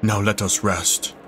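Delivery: grand archaic voice. Acted. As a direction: proclaim it like an ancient oracle. Voicing archaic NPC.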